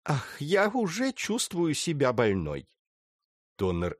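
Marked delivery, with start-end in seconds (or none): 0.0-2.7 slow flirtatious sigh; sultry narrator. Acted. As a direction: tease him with fake illness. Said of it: "низким томным голосом". (томно, кокетливо)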